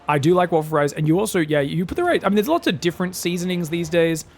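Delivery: usual speaking voice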